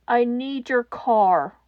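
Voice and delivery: slow raspy demand; rasped. Acted. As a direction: rasp it slowly and firmly. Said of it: "he rasped".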